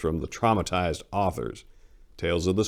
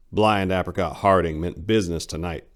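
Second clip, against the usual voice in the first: whisper. Acted. Menacing narration aside.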